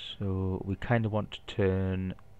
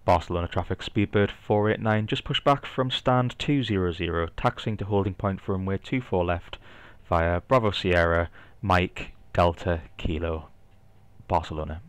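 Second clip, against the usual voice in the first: louder pilot radio call phraseology; over a radio; 3 dB louder than usual. Pretend. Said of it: "We'll do a quick radio call".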